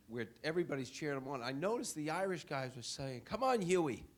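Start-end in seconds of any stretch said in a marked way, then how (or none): 3.2-4.0 higher, louder call of encouragement; retold fan cheer. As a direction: cheer him on like a fan in the pub. Irish fans cheering closer in pub.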